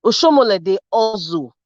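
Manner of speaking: Benin-accented Pidgin, hustle said as "ozo". Shown as a demonstration. Panelist jabbing at Oshomole, in Benin accent. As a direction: put it the way Benin people say it. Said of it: "as Benin people would say it".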